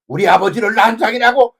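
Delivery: loud furious shout from the dark; shouted cry. Retold or imitated. Preacher retelling a play's cry, shouting. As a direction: yell it out like a voice from a dark stage. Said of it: "이러는 막 고함 소리가".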